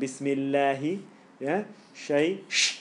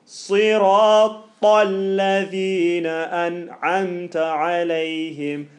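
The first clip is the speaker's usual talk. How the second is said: slow chanted "Sirata alladhina an'amta alayhim"; Quranic recitation; 4 dB louder, much slower than usual. Shown as a demonstration. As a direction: recite slowly with a heavy "ta" in "Sirata". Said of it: "'cause you're gonna say".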